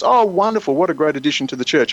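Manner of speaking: a hint of a delighted church member; lightly voiced, welcoming church lady; gushing churchgoer. Church member greets the helpful newcomer, mildly gushing.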